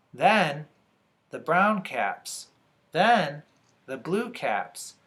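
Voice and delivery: slow list with pauses; measured story narration. A narrator's reading. Reader lists caps stacked on his head, measured narration. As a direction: place each item one by one.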